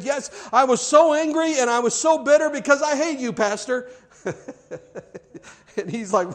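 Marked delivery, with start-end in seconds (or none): 0.0-3.9 blunt passenger. Retold or imitated. Bus passenger confessing hate.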